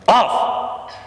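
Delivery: a sharp high barked "Off!"; sharp command. Shown as a demonstration. Trainer barks off at the puppy, sharp command. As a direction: snap the command at the dog. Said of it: "So we say".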